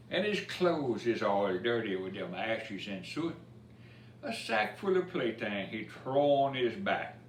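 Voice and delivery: lively storybook reading in Cajun dialect; rhythmic bedtime-story recital; reading a rhymed story. A narrator's reading. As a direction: read the verse to children with a bounce. Reads Cajun Christmas poem aloud.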